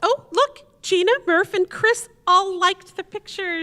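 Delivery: high, eager excitement; thrilled to show the likes; bright little burst of joy over the likes; delighted. Acted.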